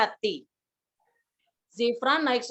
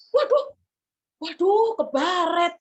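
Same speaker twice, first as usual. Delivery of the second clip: sudden fear; 3 semitones higher, 5 dB louder, slower than usual. Acted. Boy sees he has scratched a parked car, alarmed. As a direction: cry out in sudden dread. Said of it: "Zahran tiba-tiba takut".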